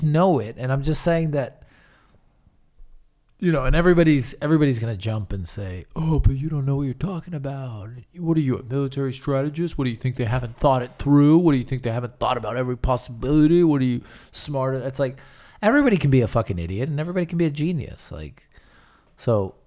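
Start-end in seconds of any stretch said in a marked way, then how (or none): 6.0-14.8 mildly put-on indignant objector; mock objecting critic. Everybody jumping in to challenge the speaker, mock indignant.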